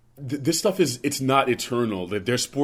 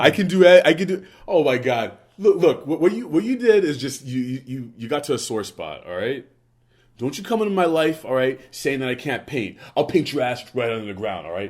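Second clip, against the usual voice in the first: mock anger; 2 semitones higher, 3 dB louder than usual. Mock anger about painting.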